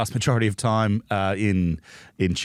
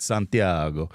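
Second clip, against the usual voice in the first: put-on Spanish accent; 3 semitones lower, slower than usual. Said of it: "Of course I did".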